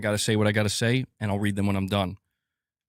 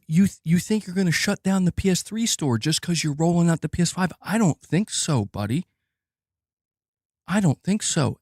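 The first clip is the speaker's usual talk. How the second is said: mocking taunt; 5 semitones higher than usual. Voicing the internet taunting Sony.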